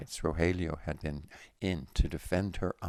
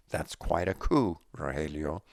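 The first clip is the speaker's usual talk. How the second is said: enthused; 5 dB louder than usual. Acted. Gwen cheering Rogelio about Daisy, enthusiastic. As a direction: lean into it with delight. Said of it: "Gwen enthused".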